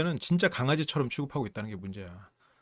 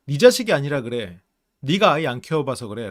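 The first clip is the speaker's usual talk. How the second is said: louder, indignant comeback; wife defending her son to her husband, louder; mock retort; 6 dB louder than usual. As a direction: throw it back at him. Wife snapping back at husband.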